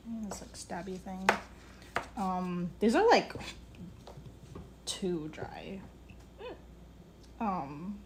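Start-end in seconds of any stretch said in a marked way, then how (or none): 2.8-5.8 words broken by hiccups; hiccuping. Real, not acted. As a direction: talk through the hiccups. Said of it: "sorry, I'm, like, hiccuping".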